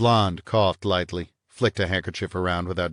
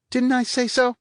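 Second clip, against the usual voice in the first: high, louder indignant retort; rising voice; 4 dB louder than usual. A narrator's reading. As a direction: push it up, exasperated. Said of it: "Her voice rose a couple of notches".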